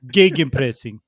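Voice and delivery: mock Eastern European accent; rolled R accent. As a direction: roll the R in gegenpressing. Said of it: "I'm rolling the S's and the R".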